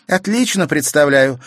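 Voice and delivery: loud, high triumphant reply; girl answering the countess in triumph. A narrator's reading. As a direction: answer with victory in the voice. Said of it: "торжествуя сказала Катерина".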